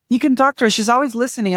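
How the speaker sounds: mock a platitude in a high, bright lilt; mocking well-meaning people. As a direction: parody the people who offer easy comfort. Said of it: "People are like".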